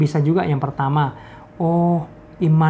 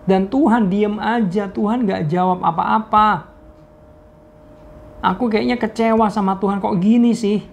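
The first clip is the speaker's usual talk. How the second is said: higher, pleading voice of a let-down believer; ashamed, disappointed friend; 4 semitones higher than usual. Retold or imitated. Jobless friend complaining to God, higher and pleading. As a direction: plead with God, hurt and ashamed, pitch rising. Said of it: "Dan dia bilang gini ke saya".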